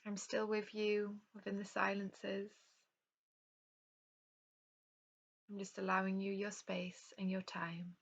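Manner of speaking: calm yoga nidra guidance with unhurried pauses; guided relaxation. Real, not acted. Yoga teacher leading an online class into rest, calm guided meditation. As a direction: guide them gently through breath and rest, leaving space between phrases.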